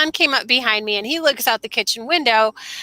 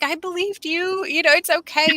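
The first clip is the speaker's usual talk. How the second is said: higher, soothing mom voice; retold reassurance; 7 semitones higher than usual. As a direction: act out calming a son down. Mother reassuring son, retold.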